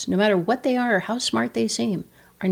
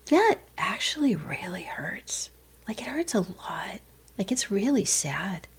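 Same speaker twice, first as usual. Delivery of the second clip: hushed, slow admission of pain; mourning; 8 dB quieter than usual. Acted. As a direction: softly own up to the hurt. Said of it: "to mourn means to say".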